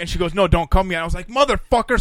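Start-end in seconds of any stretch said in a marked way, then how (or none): 0.3-1.0 higher, louder mock plea; retold urgent plea. Friend retells mother's plea to friends, mock urgent. 1.3-2.0 loud, high exasperated curse; retold exasperation. Retelling their own reaction to friends, exasperated.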